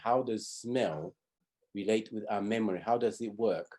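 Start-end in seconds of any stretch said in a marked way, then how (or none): none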